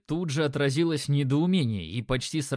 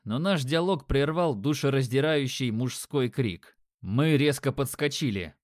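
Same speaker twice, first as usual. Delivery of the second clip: plain reading voice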